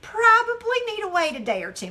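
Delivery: tentative quoted counsel; imitated cautious adviser. Acting out cautious adviser's reply.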